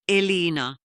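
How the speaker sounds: mock-angry call of her name; furious. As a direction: bark the name out in fury. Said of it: "Raivo vaihtuu peloksi".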